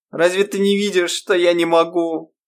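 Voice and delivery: высокий плачущий голос; жалобно, со слезами; сквозь слёзы. A narrator's reading. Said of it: "всхлипнула она". (Ирма сквозь слёзы умоляет Грейс)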